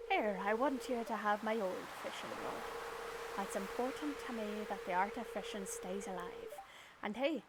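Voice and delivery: lightly voiced old fisherman handing over his rod; a touch of a kindly pirate, gently sincere; Willy pirate voice. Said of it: "I'm gonna give him a pirate voice".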